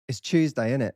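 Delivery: East London Cockney, "Tuesday" as Chewsday; casual Cockney catchphrase; Cockney accent. Shown as a demonstration. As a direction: say it like a Cockney, innit tacked on. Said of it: "you have to know British accents".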